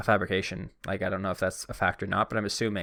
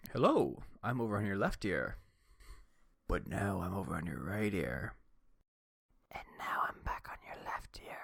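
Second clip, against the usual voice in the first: soft ASMR voice fading into a whisper; binaural; 10 dB quieter than usual. Pretend. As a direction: drift from ear to ear, softer each time. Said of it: "Let's try the barbershop".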